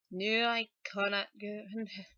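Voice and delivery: put-on grandmother's line begun in a Scottish accent, then broken off. Singer voicing the selkie's grandmother, Scottish accent. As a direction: start the Scottish line and stumble. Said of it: "she has to have a Scottish sort of accent".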